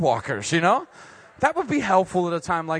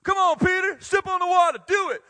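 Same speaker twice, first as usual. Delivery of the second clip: much higher, loud cheering on; cheering Jesus; 11 semitones higher, 4 dB louder than usual. Pretend. Preacher's Jesus cheering Peter onto the water, loud and high. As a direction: cheer him on like a coach at the sideline. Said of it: "would have at least been like".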